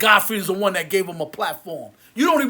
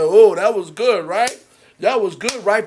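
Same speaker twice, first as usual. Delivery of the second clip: smug, self-pleased mock aside, louder on the first words; mock smug podcasters; 4 dB louder than usual. Rapper mocks podcast hosts after the camera goes off, smug imitation. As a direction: sneer at hosts patting themselves on the back. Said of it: "probably like".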